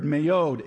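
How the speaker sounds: the Hebrew word "mayod", pronounced carefully. Shown as a demonstration. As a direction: say "mayod" as may-OD, two syllables, falling at the end. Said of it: "this word".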